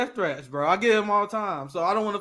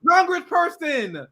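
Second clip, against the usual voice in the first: mock outrage; 3 semitones higher, 4 dB louder than usual. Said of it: "He was like".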